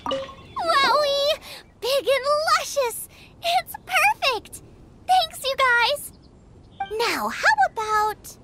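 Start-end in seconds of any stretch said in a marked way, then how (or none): 0.1-6.1 higher, gushing with delight. Acted. Cook praising the radish the team found, delighted gushing. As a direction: marvel at the big radish.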